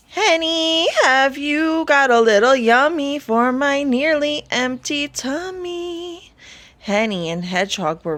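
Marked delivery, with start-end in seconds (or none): 0.1-6.3 high, loud greedy creature voice; a hungry beast calling out sing-song; loud Tumpton call. A narrator's reading. Hungry Tumpton calling to the hen for eggs, high and loud.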